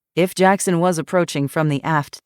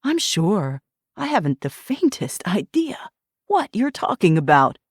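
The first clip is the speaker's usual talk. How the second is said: feigned surprise, a bit higher; mock innocence; 3 semitones higher than usual. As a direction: play innocent sarcastically. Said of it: "facsimile of surprise".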